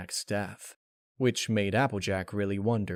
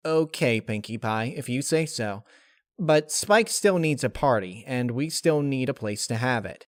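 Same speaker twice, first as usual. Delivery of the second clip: Rainbow Dash agreeing; 2 semitones higher than usual. Acted.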